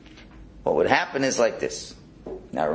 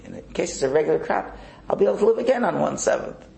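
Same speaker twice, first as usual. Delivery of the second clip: pleased excitement; 8 semitones higher, faster than usual. Acted. The saver telling God he's covered anyway, excited and smug. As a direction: race through it, proud of his planning. Second Jew boasting of his savings.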